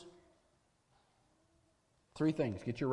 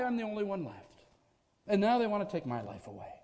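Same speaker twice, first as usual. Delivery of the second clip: anguished complaint; 5 semitones higher, 4 dB louder than usual. Acted. Elijah cries out to God, voice building in desperation.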